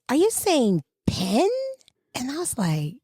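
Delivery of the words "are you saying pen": slow query leaning on PEN; questioned pen. Retold or imitated. Coworker correcting her speech, slow questioning stress on PEN. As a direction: draw out a crisp, questioned "pen". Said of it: "She was like".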